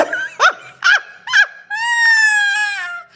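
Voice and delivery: high shrieking burst of laughter. Real, not acted. Psychic laughing off a viewer's threat, shrieking laugh. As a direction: let a piercing laugh rip out.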